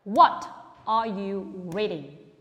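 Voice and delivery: What loud, the rest slow; model for repeating. Shown as a demonstration. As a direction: model the question slowly for the class. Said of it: "listen and repeat".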